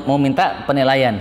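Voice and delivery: usual speaking voice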